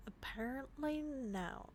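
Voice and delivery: slow, soft slip into a Southern accent; Southern American accent. Real, not acted. Player admitting a mistimed move, slow Southern accent. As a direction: drift into a Southern American drawl, softly. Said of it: "I switched to an American accent".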